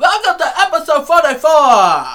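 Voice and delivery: slow, high, booming hype intro; big announcer shout. Pretend. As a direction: bellow it like a wrestling announcer. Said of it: "Or more like this".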